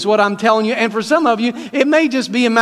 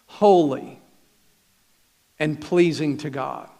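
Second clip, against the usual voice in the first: scripture reading; 2 semitones lower than usual. Acted. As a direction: read the apostle's words solemnly, with pauses. Reads scripture to congregation.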